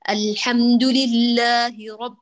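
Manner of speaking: «رب» slow with the ب clean and closed; slow careful recitation. Shown as a demonstration. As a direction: recite «الحمد لله رب» slowly, firm on ب. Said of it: "كلمة".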